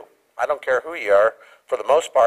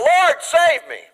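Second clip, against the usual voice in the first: high, slow cry for help; panicked plea; 4 dB louder, much slower than usual. Retold or imitated. Peter sinking, crying out to the Lord, panicked. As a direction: beg to be saved from sinking. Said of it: "he cried out".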